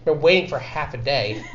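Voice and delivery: a touch of exhaustion, with small pauses; tired. Acted. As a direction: let it sag like a worn-out messenger. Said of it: "looks really tired and he's like".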